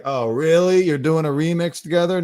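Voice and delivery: loud, high sarcastic oh really; mock incredulous question; mock disbelief. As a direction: scoff at her like you don't buy it. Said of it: "everyone's like".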